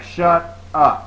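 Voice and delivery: loud, high, punchy retold shout; yelling shut up. Player retells silencing a rival gamer, loud high yell. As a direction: shout over him to silence him. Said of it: "I start yelling".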